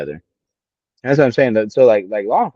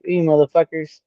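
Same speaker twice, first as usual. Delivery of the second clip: mock angry yell; 7 semitones higher than usual. Imagined yelling at boot camp instructors.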